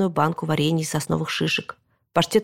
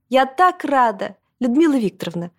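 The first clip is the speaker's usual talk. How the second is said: delighted greeting; 6 semitones higher than usual. A narrator's reading. Grandmother hugging relatives at the wedding, delighted. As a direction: greet her with gushing pleasure.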